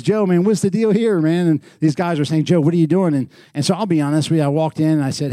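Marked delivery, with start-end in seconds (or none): 0.0-1.5 high, loud retold demand; raised voice, mock-baffled challenge; puzzled confrontation. Retold calls from puzzled friends. 2.5-3.1 high, loud retold question; mock-alarmed, voice raised; puzzled confrontation. Retold calls from puzzled friends.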